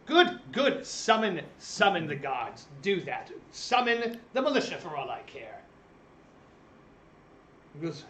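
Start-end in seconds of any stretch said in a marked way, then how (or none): 0.1-5.6 a traveller sneering at the innkeeper's threat; mocking speaker. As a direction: scoff and dare him to call the guards. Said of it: "the speaker goes".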